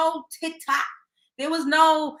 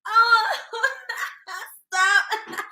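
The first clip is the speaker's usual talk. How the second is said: soft giggly brush-off; 9 semitones higher than usual. Shown as a demonstration. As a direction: play the sweet girl laughing it off. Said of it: "You can't just be like".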